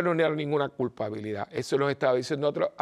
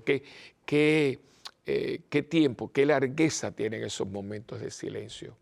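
retreat reflection. Acted. Leads retreat questions.

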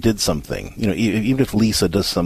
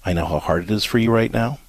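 gentle, even, softer delivery to an upset mother; calm compassionate script; 3 semitones lower, 4 dB quieter than usual. Shown as a demonstration. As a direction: say it kindly but firmly, like a rehearsed line. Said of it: "I want you to look at her and say".

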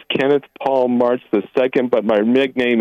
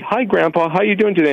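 higher-pitched, eager little greeting; a hint of a little kid hailing grandpa; lightly voiced grandchild; 9 semitones higher than usual. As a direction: lift the pitch for a child's hello. Caller voices child greeting grandpa.

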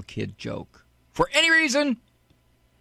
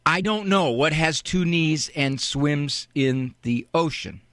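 dutiful repeat. Shown as a demonstration. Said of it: "you have to repeat it".

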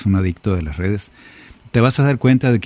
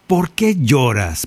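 slow, raised, drawn-out ¿por qué lloras?; gentle question; 3 semitones higher, slower than usual. Acted. Jesus asking the grieving listener why they weep, slow and raised. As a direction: stretch out ¿por qué lloras? slowly, pitch lifted. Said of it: "que te dice".

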